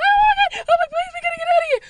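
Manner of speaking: loud, high, rapid pleading; reenacted frantic scream; screaming in panic. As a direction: beg to escape in a rushed shriek. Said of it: "I'm just screaming".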